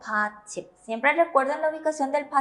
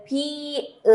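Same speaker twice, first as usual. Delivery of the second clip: slow spelled-out name; 3 semitones higher, 6 dB quieter than usual. Shown as a demonstration. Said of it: "nuestra última consonante de 받침".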